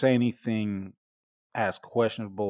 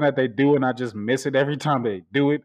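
incredulous; 4 semitones higher, 5 dB louder, faster than usual. Real, not acted. Baffled about scissor move.

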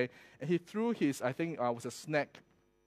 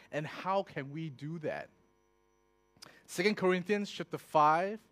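normal talking voice

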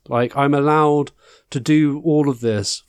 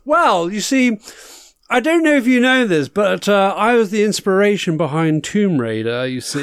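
campy drag queen; 5 semitones higher than usual. Acted. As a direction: gush every word like a glamorous diva. Host character, campy darling persona.

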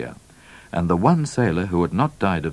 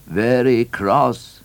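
troubled governor; 5 semitones higher, 3 dB louder, much slower than usual. A narrator's reading. Governor reports Queen's displeasure.

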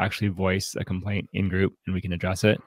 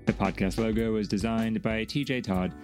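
softer, measured credits read; scripted podcast outro; 8 dB quieter than usual. Acted. Host asking listeners to support the show, scripted outro read.

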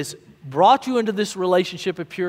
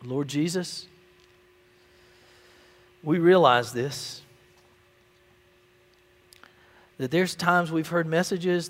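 public prayer; 3 dB quieter than usual. Real, not acted. Let's pray together.

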